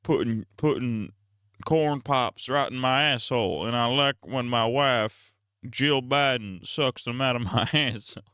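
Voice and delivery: lightly voiced stammering old president; a hint of a halting, rambling Biden; Joe Biden impression. Streamer mocks Biden crudely for chat, lightly voiced stammering impression. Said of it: "Not a true Biden impression".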